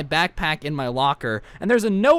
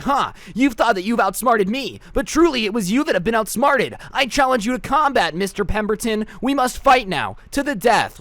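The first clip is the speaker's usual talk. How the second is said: overdramatic anime voice; 5 semitones higher, 3 dB louder than usual. Retold or imitated. Weeaboo challenging teacher to combat.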